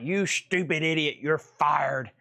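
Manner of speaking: lightly voiced dog firing Seth; a hint of a bossy dog, mock angry; voicing the dog. Owner voicing his dog chasing Seth out: mock scolding. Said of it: "and Otis is like".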